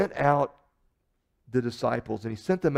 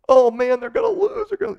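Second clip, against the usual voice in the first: much higher, louder mock panic; imitating panicked friend; 11 semitones higher, 10 dB louder than usual. Friend watching the Chiefs trail, panicky high whine. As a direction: whine it like a fan sure they'll lose.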